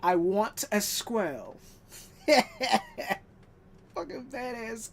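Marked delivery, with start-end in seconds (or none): 0.0-1.6 bratty Veruca whine. Retold or imitated.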